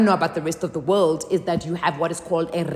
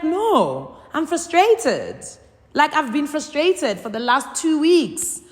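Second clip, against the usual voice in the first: frustrated; 8 semitones higher, slower than usual. Retold or imitated. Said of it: "I'm down and I'm frustrated and I'm irritable".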